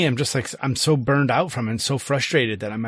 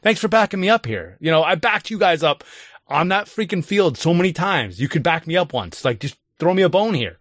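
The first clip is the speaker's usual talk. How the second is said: sarcastic program voice; 4 semitones higher than usual. Retold or imitated. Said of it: "the program being like".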